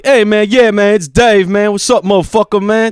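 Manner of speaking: high, animated take on roommate's Black American speech; imitated Black American speech. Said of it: "he talked like a black guy".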